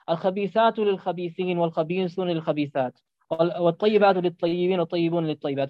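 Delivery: measured recited Arabic verse; lightly chanted Quranic verse; Quran recitation. Acted.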